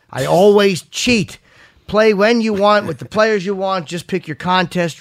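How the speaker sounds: measured sponsor read. Real, not acted. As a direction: sell it playfully, punching key phrases. Reads sponsor copy.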